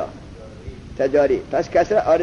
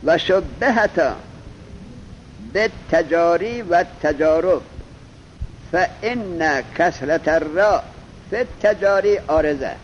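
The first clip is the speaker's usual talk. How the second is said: slow text recitation. Shown as a demonstration. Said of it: "حالا خودش هم میگه".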